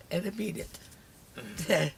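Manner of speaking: very slow, tearful, sincere; barely holding back tears; snotty crying. Real, not acted. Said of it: "I'm ugly crying over here".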